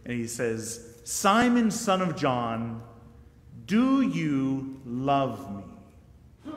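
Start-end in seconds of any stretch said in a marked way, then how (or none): 1.0-2.8 tender Jesus question. Acted. Jesus asking Peter slowly and searchingly. 3.7-6.5 drawn-out question. Acted. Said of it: "Similar to my question of".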